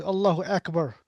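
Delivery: Akbar with a flat "a" as in "cat"; anglicized first vowel in Akbar; westernized pronunciation. Retold or imitated. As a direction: say Akbar as "ACK-bar". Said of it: "even the Arabian brother pronounces".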